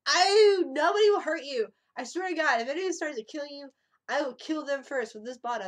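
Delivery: high, loud hammed-up friend, swearing to protect; playing the drunk friend swearing loyalty, high and loud; mock drunk vow. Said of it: "She goes".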